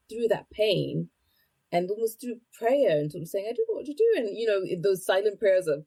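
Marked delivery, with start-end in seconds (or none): 3.5-4.1 high desperate plea. Retold or imitated. Prayer voiced high.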